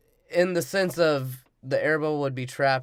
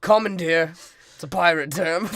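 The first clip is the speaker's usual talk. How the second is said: mock pirate correction; 3 semitones higher, 5 dB louder than usual. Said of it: "And he's like".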